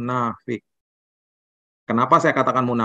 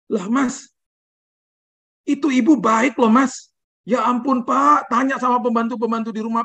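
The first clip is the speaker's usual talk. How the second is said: high, lifted storyteller voices; retold dialogue; 11 semitones higher than usual. Pastor defends the lady to the driver, high retold voice. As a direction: play both sides pitched high.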